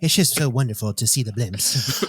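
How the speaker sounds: Ronald Reagan impression. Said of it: "you guys do the Ronald Reagan impressions".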